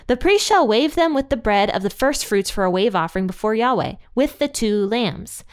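steady, measured Bible reading; scripture reading. Acted. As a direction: read the verses aloud solemnly. Reads Leviticus passage aloud.

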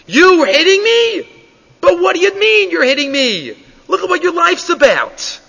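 the donkey scolding its rider; high mock rebuke; indignant donkey.

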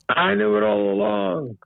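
slow, high, mock-casual; smug cover-up. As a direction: pretend you knew all along. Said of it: "I said".

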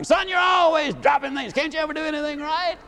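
scolding parent. Retold or imitated. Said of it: "How many times does a child drop something".

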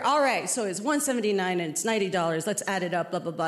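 low, murmured tallying aside, lightly acted; cop totting up. Cop adding up prices for his partner, low muttered tally. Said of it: "telling his partner".

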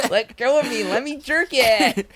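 high, slow pleading; silly high voice. Pretend. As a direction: beg in a silly squeaky voice. Acted struggle, silly voice.

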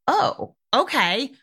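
high, bright-eyed "oh, okay"; surprised acceptance. Retold or imitated. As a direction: caught off guard, then giving in. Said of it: "I was like".

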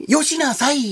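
Yamagata dialect. Shown as a demonstration. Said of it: "どんな感じですか？".

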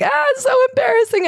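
high, squealing mock embarrassment; mock embarrassed Tori. Host mocking Tori's email to the moms, hammed-up embarrassment. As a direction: ham up Tori's cringing apology.

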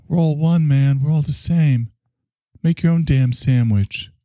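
high-pitched, mock-hostile outburst; repressed hostility. Sandwich maker telling customer to fend for himself, mock-hostile. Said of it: "a little repressed hostility".

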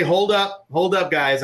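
relaxed, friendly, in charge of the photographers; McConaughey. Retold or imitated. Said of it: "he would say".

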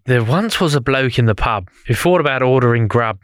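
put-on light Australian accent. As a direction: recite it in a hint of Aussie. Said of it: "Why are you doing Australian accent".

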